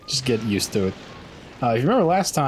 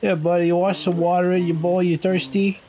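higher sing-song voice for a pet; baby-talk to the dog; 7 semitones higher than usual. Acted. Talking to the dog.

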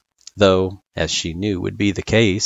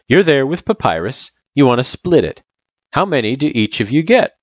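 higher, friendly explaining voice; Sans, encouraging tutor; 5 semitones higher, 4 dB louder than usual. Acted. Sans setting Frisk a candy problem, encouraging. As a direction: coax the kid along lightly.

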